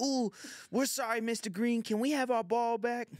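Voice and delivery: put-on high, loud little-kid voice; timid kids. Neighborhood kids asking Mister Green for their ball, high and timid. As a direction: plead sweetly like a nervous child.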